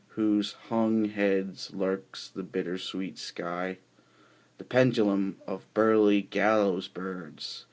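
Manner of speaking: measured, declamatory poem recital; poetry reading. Acted. Poet reads Crumbling David to listeners, poetry reading. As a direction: recite it with weighted key words and pauses between phrases.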